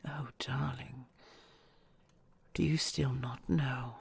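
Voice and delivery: hushed, intimate whisper to a loved one; tender whisper. Acted. Dragon whispering vows to her treasure.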